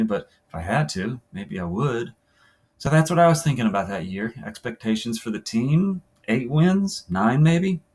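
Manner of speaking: understated first-person story reading; interview monologue. Acted. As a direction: read it as a player confiding about a tough year. Reads third player's interview aloud.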